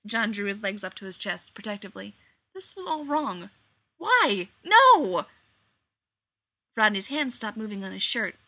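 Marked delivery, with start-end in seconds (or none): 4.0-5.3 high shouted refusal; louder, rising panic; panicked. A narrator's reading.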